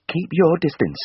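icy, high, cold warning; frigid. A narrator's reading. Lydia coldly warning off Tristan, icy and high. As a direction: freeze him out as he steps closer. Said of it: "she said frigidly".

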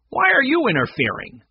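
acted agitated voice; nervous. A narrator's reading. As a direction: challenge them with a touch of nerves. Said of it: "Mac asked nervously".

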